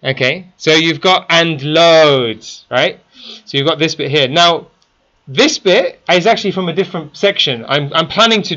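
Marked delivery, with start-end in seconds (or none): 1.3-2.7 "loads" with a lengthened O; stretched LOADS. Shown as a demonstration. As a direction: draw out the vowel in "loads". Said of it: "you've gotta stretch it".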